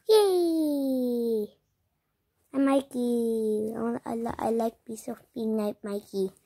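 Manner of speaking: put-on soft, slow baby babble; a lightly voiced toddler, quiet and halting. Baby plush introducing himself in soft babble.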